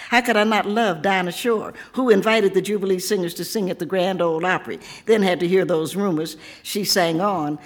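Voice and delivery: measured, rhythmic poetry reading; proud spoken-word poem read to a home crowd; poem recitation. Acted. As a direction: let each line land like a chant of pride. Reads her Tennessee poem aloud.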